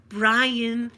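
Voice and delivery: loud imitated name call. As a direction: call it across the tables. Server calling out the wrong name.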